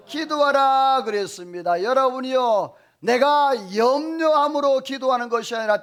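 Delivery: high, loud pulpit exhortation; fervent preaching. Acted. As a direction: preach it out to the whole congregation. Preaching at full voice.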